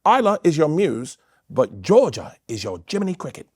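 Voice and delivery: imitated British comic; lightly put-on British accent, pronouncing it grandly. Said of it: "really smart British comic".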